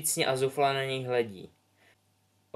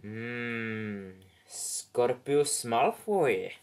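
hat thinking aloud; much slower than usual. Acted. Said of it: "přemýšlel klobouk nahlas".

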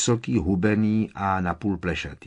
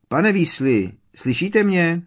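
calling into the fireplace; 9 semitones higher, 6 dB louder than usual. A narrator's reading. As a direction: voice raised into a chimney. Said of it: "zavolal dovnitř". (volá do krbu)

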